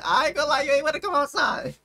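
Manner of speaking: high, loud, laughing jeer; amused teasing. Real, not acted. Streamer teasing the rapper over leaked messages, amused and high-pitched. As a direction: tease them, about to crack up.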